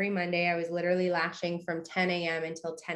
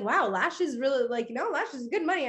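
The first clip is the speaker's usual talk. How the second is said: put-on impressed boyfriend; 5 semitones higher than usual. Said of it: "He's like".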